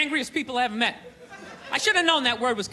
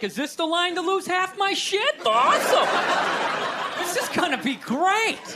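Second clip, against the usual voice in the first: higher, laughing fake enthusiasm; mock eager sarcasm; 4 semitones higher than usual. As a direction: sound thrilled about something awful. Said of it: "They're just like".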